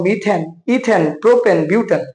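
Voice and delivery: "মিথেন, ইথেন, প্রোপেন, বিউটেন" each ending in a clear "এন". Shown as a demonstration. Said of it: "নামকরণের শেষে তোমার উচ্চারণ করতে হয় এন". ("মিথেন, ইথেন, প্রোপেন, বিউটেন"-এর শেষে স্পষ্ট "এন" উচ্চারণ)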